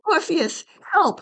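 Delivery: high, loud panicked cry; cry for help. Acted. Eurydice fleeing the bees, high panicked cry for help. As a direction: scream for her husband.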